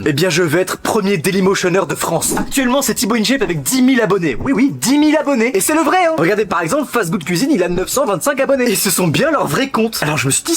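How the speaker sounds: loud, emphatic challenge speech; grandiose announcement. Acted. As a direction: proclaim it like a great public challenge. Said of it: "Pourquoi je parle comme ça". (annonce solennelle, forte et emphatique)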